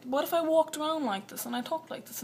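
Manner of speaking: quick, lightly put-on British accent. Imagining walking around school talking like this, British accent. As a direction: rattle it off in mock British. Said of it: "like, British accents".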